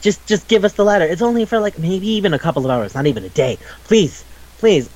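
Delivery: mildly acted pleading; half-earnest begging in a retold scene. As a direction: retell it as a light, pestering plea. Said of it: "They're just, like, begging her".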